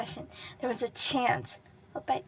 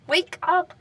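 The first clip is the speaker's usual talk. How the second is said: loud, higher urgent cry; shouted plea; 6 semitones higher, 10 dB louder than usual. Acted. Katsuki shouting at the unmoving boy, loud plea. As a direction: shout wake up at him.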